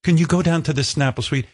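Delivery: put-on polite request in a rough British accent. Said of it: "I don't do a British accent".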